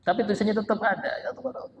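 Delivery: heated preaching climb; rising fervour. Real, not acted. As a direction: hammer home that writing stays, racing upward. Preacher stresses writing stays forever.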